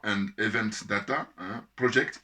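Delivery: English words said with a French accent; "Project" said the French way, ending on a rise. Real, not acted. Reading the organization's name out in French-accented English. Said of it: "excusez-moi pour le, l'accent".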